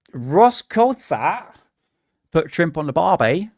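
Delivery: mock Australian accent, name drawn out with a rise. Shown as a demonstration. Streamer showing the best Australian accent they can do, hammed-up Australian accent. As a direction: put on an amateur Australian accent. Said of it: "my, uh, Australian accent".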